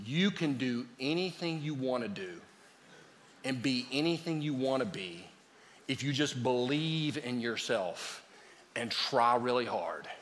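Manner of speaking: a touch of sugary parent reassurance; soft parental lie. Retold or imitated. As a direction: mimic a gentle parent to a child. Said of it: "We tell our kids".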